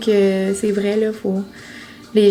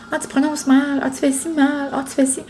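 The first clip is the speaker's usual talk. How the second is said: higher-pitched mock complaints; mimicked nagging commenters; 4 semitones higher than usual. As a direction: lightly mimic nitpicking online critics. Imitating critical comments about her accent.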